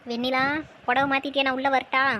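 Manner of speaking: put-on loud call to the girl inside; calling through a door. Friend calls to the bride changing inside, loudly. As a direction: call out so she hears you behind the door.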